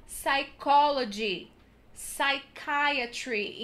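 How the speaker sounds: psychology and psychiatry starting on an s; silent p. Shown as a demonstration. Teacher modelling psychology without the p. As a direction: drop the p, slowly. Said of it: "Em inglês é".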